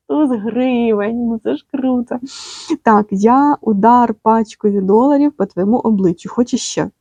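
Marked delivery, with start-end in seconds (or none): 0.1-2.2 a slow, laughing, gleeful drawl; delighted drawn-out. Real, not acted. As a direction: stretch the words out slowly, with a laugh. Savours the money card.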